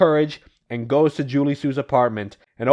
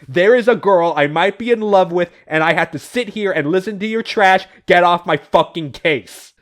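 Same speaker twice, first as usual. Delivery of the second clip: raised, exasperated acted rant; mock furious yelling; 3 semitones higher, 4 dB louder than usual. Knuckles throttles Vector over his trash talk, mock angry yelling. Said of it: "screaming, hands around his throat".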